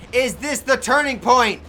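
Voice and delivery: slow, loud, high dramatic question; dramatic announcer. Shown as a demonstration. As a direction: build suspense like a ring announcer. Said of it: "Is this the turning point, ladies and gentlemen?".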